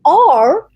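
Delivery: R as in English, mouth open. Shown as a demonstration. Explaining the English sound, open-mouthed curled "R". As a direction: open the mouth and curl the tongue for "R". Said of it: "requires that you open your mouth".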